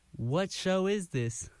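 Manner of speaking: high, slow puzzled listener voice, lightly put on; mock confused listener. Host imitating a confused listener at home, high and slow. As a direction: play a baffled listener at home asking, drawn out. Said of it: "you might be saying at home".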